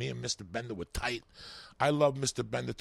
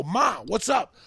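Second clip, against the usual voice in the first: casual greeting; 10 semitones higher, 7 dB louder, slower than usual. Retold or imitated. Walking into neighbors' house.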